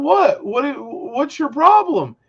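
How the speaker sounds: a hint of an offended coworker; defensive coworker. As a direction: mimic a coworker who doesn't get it. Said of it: "And he's like".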